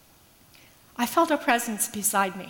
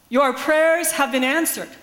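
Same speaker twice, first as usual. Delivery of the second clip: slow, louder, certain pronouncement; matter of fact; 3 semitones higher, 5 dB louder than usual. Retold or imitated. Nigerian grandmother to the pastor, calm certain declaration. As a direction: say it as settled truth, no room for doubt. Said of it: "spoken as a matter of fact".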